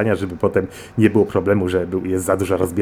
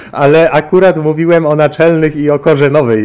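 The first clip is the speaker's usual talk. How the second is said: laughing protest; 7 semitones higher, 7 dB louder than usual. Real, not acted. Flustered denial to caller's teasing.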